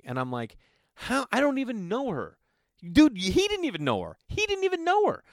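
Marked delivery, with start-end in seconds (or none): 1.0-2.4 high-pitched retold incredulity; baffled protest. Retold baffled objection to buddy. 2.9-5.2 high, loud comic astonishment; incredulous emphasis. Real, not acted. Comic disbelief, repeated to audience.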